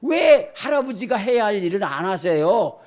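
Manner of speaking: usual speaking voice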